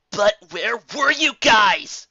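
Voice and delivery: pleading through tears; tearful plea. Acted. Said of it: "Spike asked with squaring eyes".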